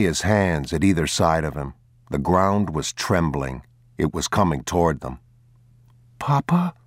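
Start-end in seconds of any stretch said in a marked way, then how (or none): 6.2-6.7 put-on boy's voice, much higher, rising question; a boy woken by a rumble, calling his father; boy calling Papa in the dark; child calling. A narrator's reading. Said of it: "the boy said".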